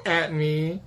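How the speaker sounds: high, drawn-out laughing cry; helpless laughing complaint; laughing protest. Real, not acted. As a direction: protest loudly through laughter.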